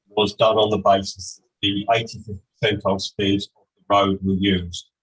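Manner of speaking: distant echoing bad microphone; down a well. Real, not acted. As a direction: voice hollow and far away, like down a well. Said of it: "you sound like you're at the bottom of a well".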